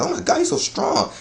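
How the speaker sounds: mock admiring high voice; imitated Rebecca. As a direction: put on a swooning falsetto. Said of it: "Rebecca like".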